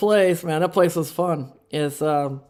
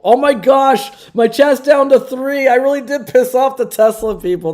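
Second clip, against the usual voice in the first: surprised; 8 semitones higher, 8 dB louder than usual. Real, not acted. Chat count dropping.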